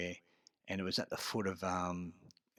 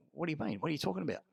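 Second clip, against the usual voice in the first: bewildered; 8 semitones higher, faster than usual. Retold or imitated. Accused, retold disbelief.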